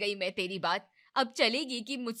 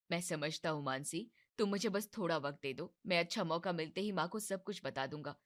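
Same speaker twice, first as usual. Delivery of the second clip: reassuring; 2 semitones lower, 5 dB quieter than usual. Acted. Husband calming upset wife.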